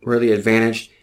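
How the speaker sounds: over-the-top advice column read; mock magazine advice read. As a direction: read it like a teen magazine tip.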